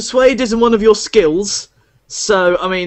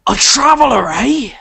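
a hint of a higher tavern barkeep voice; greasy barkeep; 4 semitones higher than usual. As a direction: play a sly innkeeper sizing up a stranger. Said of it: "is this like a greasy Hagrid?".

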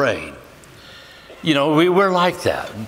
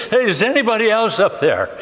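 raised pitch, comic calling out; doubtful calling up; 5 semitones higher than usual. Retold or imitated. Habakkuk doubting God's answer, calling up in mock disbelief. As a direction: call up as if seeking someone better.

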